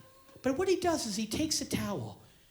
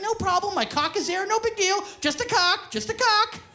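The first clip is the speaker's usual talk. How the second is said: casual masseur; 7 semitones higher, 3 dB louder than usual. Retold or imitated. Voicing the masseur's nonchalance.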